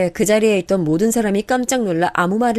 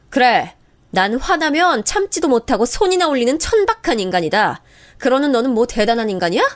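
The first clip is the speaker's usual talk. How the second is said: higher, heated insults; heated sister-in-law quarrel; bitter angry retort; 4 semitones higher than usual. Acted. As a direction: fling the insult back hard. Narrator hurling insults.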